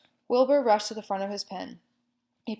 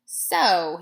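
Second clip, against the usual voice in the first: disgusted; 9 dB louder than usual. A narrator's reading. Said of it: "he said in disgust".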